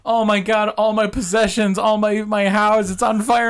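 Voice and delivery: high-pitched frantic homeowner; mock panic, voice pushed up high; acted panic. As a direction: play a victim wailing over the loss. Acted homeowner panicking at house fire.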